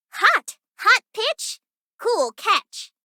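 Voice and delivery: high, punchy forecast call; hyped announcer. Acted. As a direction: sell the heat like a TV weatherman. Hyped weather-report pitch call.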